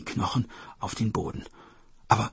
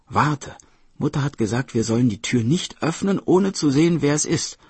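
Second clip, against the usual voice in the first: put-on slightly raised, insistent child; lightly voiced cautioning brother; 4 semitones higher, 5 dB louder than usual. Brother reminds sister of Mother's rule, mildly urgent caution. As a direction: warn your sister with some urgency.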